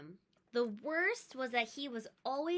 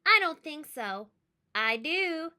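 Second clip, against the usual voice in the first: bickering; 5 semitones higher, 8 dB louder than usual. Acted.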